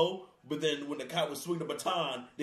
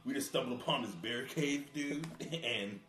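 lightly voiced Crocodile Hunter on coke; crackhead Steve Irwin; 3 semitones lower, 4 dB quieter than usual. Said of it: "why you sound like a crackhead Steve Irwin".

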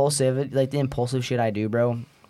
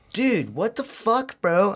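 high, drawn-out imitation of a stunned girl; mock shocked disbelief; 6 semitones higher, much slower than usual. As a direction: act out appalled disbelief, stretching the words. Voices shocked girl watching him.

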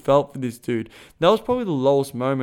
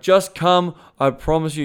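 urging; 3 semitones higher, 5 dB louder than usual. Retold or imitated. Coach talking a hesitant client into the retreat, urging. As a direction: push the words out to persuade.

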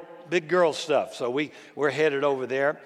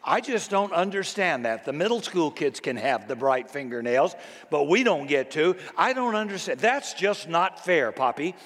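lightly voiced little girl, earnest and serious. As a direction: mimic a second grader's grave complaint, lightly. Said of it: "in such a serious tone of voice".

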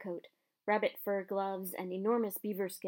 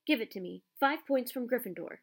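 cold Snape voice; 3 semitones higher than usual. Acted. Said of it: "said Snape".

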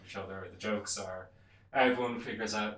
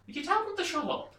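high-pitched, loud acted complaint; calling down angrily; 8 dB louder than usual. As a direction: holler a mock complaint downstairs in a raised voice. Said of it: "calls down to the bar going".

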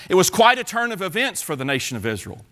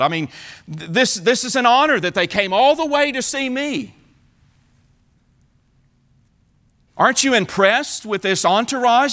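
higher, eager look-at-this boasting; proud excited king; 5 semitones higher than usual. Acted. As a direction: brag like a delighted host. Hezekiah answers the prophet.

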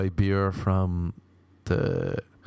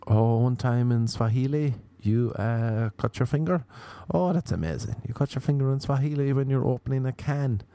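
mock fascination; 4 semitones higher than usual. Mocking a bragging name-dropper's story.

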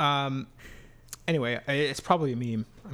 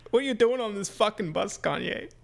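smoker from New York; 9 semitones higher than usual. Acted. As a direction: play a New Yorker who smokes too much. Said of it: "a guy from New York who smokes too much".

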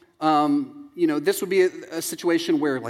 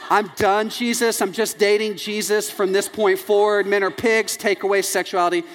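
higher-pitched, emphatic declaration; mock breakup outrage; 4 semitones higher than usual. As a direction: swear off men in comic indignation. Girl's vow after a breakup, acted.

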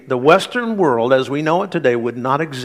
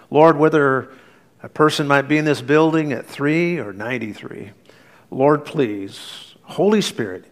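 pastoral prayer. Acted. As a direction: lead the congregation gently in prayer. Pastor leads the congregation in prayer.

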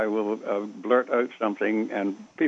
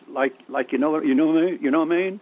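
put-on inarticulate young talker; 4 semitones higher than usual. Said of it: "people don't speak English".

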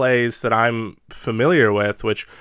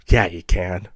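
coaxing Lady Macbeth; 2 semitones lower than usual. Retold or imitated.

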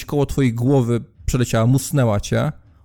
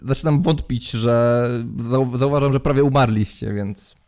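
sarcastic concern. Acted. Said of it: "takim tonem w stylu".

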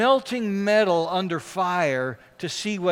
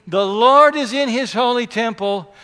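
louder, firm, defiant declaration; 3 semitones higher, 8 dB louder than usual. Retold or imitated. Psalmist answering the scoffing neighbor, firm and defiant. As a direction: plant your feet and proclaim it defiantly. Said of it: "firmly and defiantly".

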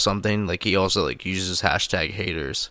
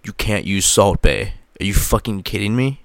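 stern president dad; 4 dB louder than usual. Pretend. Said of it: "I would be like".

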